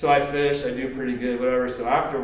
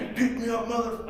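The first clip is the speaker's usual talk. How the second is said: mock scream; 10 semitones higher than usual. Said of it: "He's screaming at".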